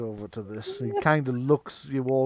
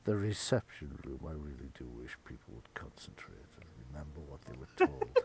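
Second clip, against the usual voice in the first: low, quick, soft complaint; deep muttered gripe; grumbling butler; 11 semitones lower, 10 dB quieter than usual. Acted. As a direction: grumble under your breath like a weary servant.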